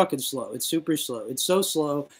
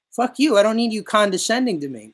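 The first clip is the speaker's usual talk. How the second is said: retold angry retort; 7 semitones higher, 5 dB louder than usual. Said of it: "And I just say".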